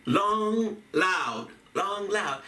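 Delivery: Long rising, loud falling; long then loud beats. Shown as a demonstration. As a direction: mark long and loud in turn. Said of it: "a soft and a hard".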